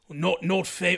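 clumsy, bad, fake put-on Scandinavian accent. Guessing what a profile visitor said, in a bad Scandinavian accent. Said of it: "I can't do a Scandinavian accent".

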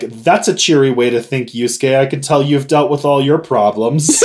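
fast, mock bone-dry, totally deadpan delivery. Recapping a scene, quoting Koenma's reply to Yusuke: retelling Koenma's deadpan. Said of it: "totally deadpan".

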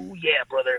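soft, hushed, breathy put-on character voice. Speaker retells a man they kept running into who would do the voice; Macho Man voice. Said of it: "he would do the voice".

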